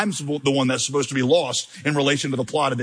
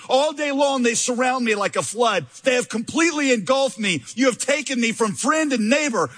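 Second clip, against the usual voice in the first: anguished cry; 7 semitones higher than usual. Acted. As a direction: cry the verses out to God. Climax of lament reading.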